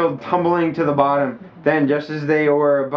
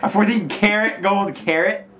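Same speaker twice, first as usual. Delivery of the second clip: mock grand reveal; 6 semitones higher than usual. Shown as a demonstration. Third take of the reveal.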